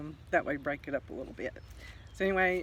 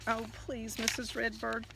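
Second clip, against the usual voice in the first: a touch of fear, begging gently; frightened begging; 4 semitones higher than usual. Acted. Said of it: "The frightened Easter egg begged".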